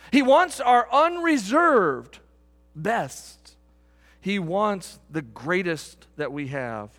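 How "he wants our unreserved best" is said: rising climax. Real, not acted. Preacher peaking over music as the congregation listens, slow and louder. Preacher builds repeated declaration.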